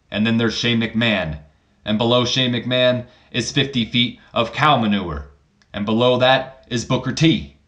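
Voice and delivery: imitating The Rock. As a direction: lay out the pecking order with swagger. The Rock cuts a promo.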